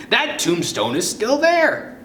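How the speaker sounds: high, slow scolding; drawn-out, high-pitched chiding; scolding grandmother. A narrator's reading. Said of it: "she scolds you".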